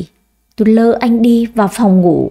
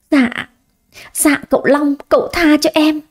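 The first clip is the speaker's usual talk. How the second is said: higher-pitched, mildly tearful begging; a touch of pleading, pitched up; 5 semitones higher than usual. A narrator's reading. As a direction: plead timidly for forgiveness. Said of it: "khóc lóc van xin".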